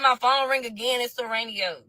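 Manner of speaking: ordinary delivery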